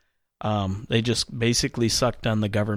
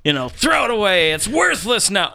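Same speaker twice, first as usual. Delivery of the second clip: mock alarmist headline; 6 semitones higher than usual.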